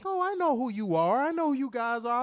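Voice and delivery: playful imitation of a woman star; imitating Trish. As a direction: lightly play the wrestler greeting him. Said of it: "She was like".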